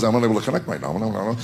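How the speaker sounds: a sleepy smart speaker; mock robot voice; Alexa's robotic voice. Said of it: "She goes".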